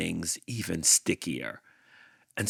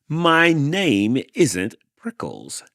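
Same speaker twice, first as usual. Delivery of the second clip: higher, louder, slow and insistent; annoyed yell; 8 semitones higher, 8 dB louder, slower than usual. Acted. Hank yelling back at the jackrabbit. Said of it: "Hank yelled back".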